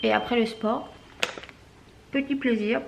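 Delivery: talking with a mouthful; words through a bite of food; mouth full. Real, not acted. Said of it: "Je pars la bouche pleine". (la bouche pleine)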